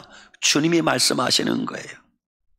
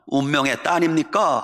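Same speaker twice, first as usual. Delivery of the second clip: Gyeongsang-accented death notice; Gyeongsang dialect. Shown as a demonstration. Preacher compares death notices, in Gyeongsang dialect. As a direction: say it like a Gyeongsang local. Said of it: "경상도 말".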